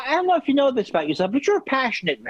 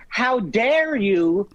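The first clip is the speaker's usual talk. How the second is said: mock indignant; much slower than usual. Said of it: "I say".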